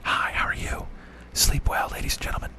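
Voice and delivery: soft unvoiced whisper; ASMR whisper. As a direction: whisper like a sleep channel host. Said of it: "invent an A M S R channel".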